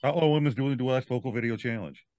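rattled off fast; fast tongue twister. Shown as a demonstration. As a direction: reel it off quickly. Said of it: "you do it so fast".

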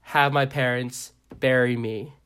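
solemn mock poem with measured pauses; poem recital. Reading own Instagram poem, mock-earnest recital. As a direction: recite it line by line, leaving gaps. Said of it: "one of the poems I wrote is".

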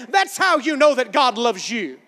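shouted sermon point. Real, not acted. Preacher shouting the point home.

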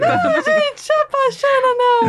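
high squealing laugh. Real, not acted. Laughing at product name.

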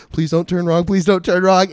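loud, high, repeated pleading; mock panic. Comic reliving his drive off base, mock-panicked pleading. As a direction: chant it like a nervous prayer. Retold nervous self-talk while driving.

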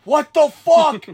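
slow, loud, high disbelief; comic yell of alarm; freaking out. Retold or imitated. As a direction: draw it out in retold panic. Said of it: "I'm freaking out".

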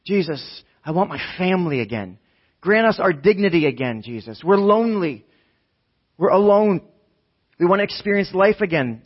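impassioned appeal building in urgency; desperate plea. Acted. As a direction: plead for your life back. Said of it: "This was desperation".

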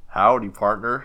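southern accent attempted on request. Shown as a demonstration. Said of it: "partner, in a southern accent?".

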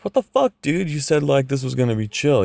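high, loud disbelieving yelp; outraged disbelief. Retold or imitated. Amir protests to the Coyote, outraged and loud. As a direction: squeal it out like you've just been betrayed. Amir told to shoot people.

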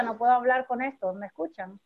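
talking through a face mask; words muffled behind a mask. Real, not acted. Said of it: "Tengo la mascarilla puesta".

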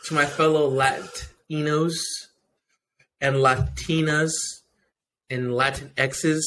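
slow grand announcement; mock formal speech. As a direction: drag it out like a speech.

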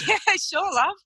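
high, breezy yeah sure love; retold easy agreement. Tradie happily agreeing to a nude photo, high and breezy. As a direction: agree on the spot, cheery and casual. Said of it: "he said".

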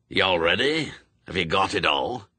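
put-on brusque old witchfinder with a Scots burr; old Scots sergeant. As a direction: bark orders like a crusty sergeant. Shadwell voiced.

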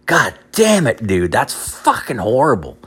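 appalled outburst at a friend's bad news; shocked disbelief. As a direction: pitch jumps up on God damn it, falling off. Shocked reaction to friend's story.

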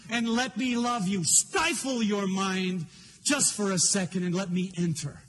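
lightly voiced God, insistent and loving; earnest divine plea, drawing out key words. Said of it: "I can feel him saying".

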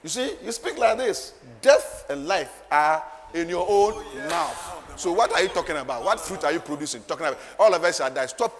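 loud, emphatic pulpit rebuke; forceful preaching. Real, not acted. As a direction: drive it home to the congregation.

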